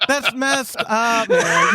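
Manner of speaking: high, slow protest through laughter; drawn-out, high-pitched mock objection; laughing protest. Real, not acted. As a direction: complain while cracking up. Reacting to the prank amid laughter.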